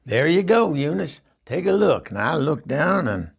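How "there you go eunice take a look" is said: higher, louder tattoo artist announcing the job; tattoo guy's voice. Retold or imitated. Tattoo artist proudly shows Eunice his work. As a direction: puff up as the proud tattoo man. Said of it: "finally he says to me".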